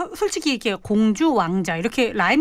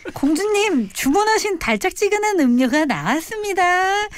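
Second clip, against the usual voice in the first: high, theatrical servant announcing to royalty; historical-drama tone; 8 semitones higher than usual. Shown as a demonstration. Demonstrating royal address for a girlfriend, high historical-drama tone. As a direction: announce it grandly in a raised period-drama voice. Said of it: "아예 사극 톤으로".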